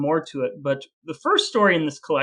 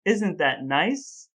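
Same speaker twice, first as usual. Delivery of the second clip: dry sarcasm; much slower than usual. Acted. Sarcastic after grim poem.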